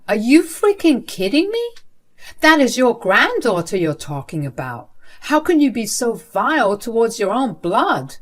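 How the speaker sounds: sharp high outburst, then loud accusation; outraged disbelief. Acted. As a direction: yell it at her in disbelief. Son confronting his cruel mother.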